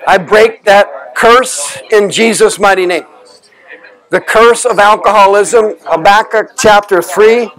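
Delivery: solemn scripture reading. Acted. Quoting scripture as a curse.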